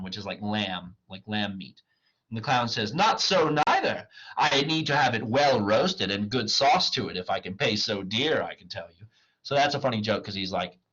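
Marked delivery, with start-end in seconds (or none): 2.9-9.1 comic protest. Acted. Clown objects to raw mutton.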